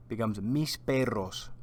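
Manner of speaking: mis perros said clearly in Spanish, stress on mis. Shown as a demonstration. Teacher models mis perros for students to repeat. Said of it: "So repeat after me".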